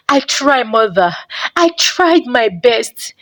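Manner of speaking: a touch of a shaking voice, slow. Acted. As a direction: hold back tears as you insist. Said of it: "his voice shaking".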